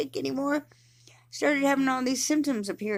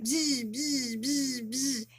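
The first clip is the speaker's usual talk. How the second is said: imitated buzzing; 3 semitones higher, 4 dB quieter, much slower than usual. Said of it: "it'll just keep on, like".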